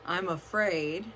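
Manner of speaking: slow, drawn-out admission of being afraid. Shown as a demonstration. Coach demonstrating the fearful way of saying it, afraid. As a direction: say it slowly, dwelling on the fear. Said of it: "even just when I said it".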